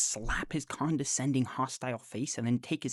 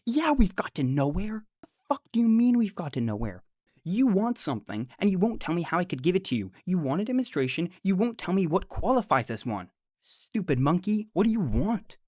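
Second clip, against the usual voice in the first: louder, higher furious rant at the screen; angry rant; 4 semitones higher, 4 dB louder than usual. Real, not acted. Yelling at Andrew through the laptop, real anger. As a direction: let the frustration boil over.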